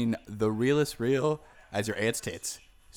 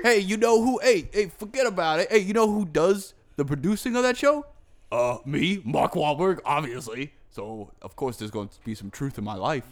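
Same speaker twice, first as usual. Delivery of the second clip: Mark Wahlberg impression; 2 semitones higher, 3 dB louder than usual. To friends as Mark Wahlberg, a loud, brash boast. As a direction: boast loudly like a cocky star. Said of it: "That sounds nothing like him".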